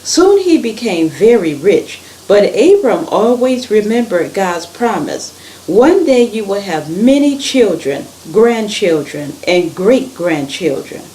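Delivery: animated storytelling, stressed words lifted; story read-aloud. A narrator's reading. Reader tells children of Abram and God's promise, animated storytelling.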